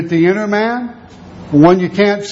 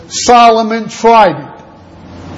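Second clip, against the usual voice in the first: building emphasis; 3 semitones higher, 3 dB louder, slower than usual. Acted. Preacher builds to climax.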